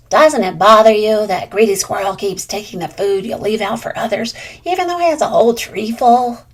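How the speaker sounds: Blue Jay asks, slightly pushy; curious bird voice. Acted. Blue Jay questions squirrel.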